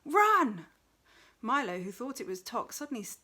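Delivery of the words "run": very loud, high shout of warning; distant voice crying out, loud and high; urgent cry. A narrator's reading. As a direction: yell it so they flee. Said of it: "a voice cried out".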